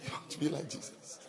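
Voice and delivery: whispered teasing question; mock whisper. Real, not acted. Preacher whispering a jibe at a proud listener. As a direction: hush it like a secret jibe.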